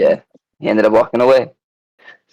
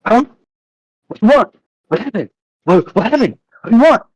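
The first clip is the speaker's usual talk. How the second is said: hostile stranger; 11 semitones higher than usual. Retold or imitated. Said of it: "looks at me and goes".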